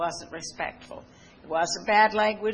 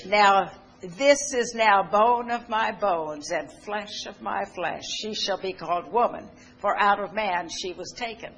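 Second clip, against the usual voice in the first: scripture reading; 2 semitones higher, 4 dB louder than usual. Acted. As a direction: read it out solemnly like from the pulpit. Preacher reads Genesis aloud.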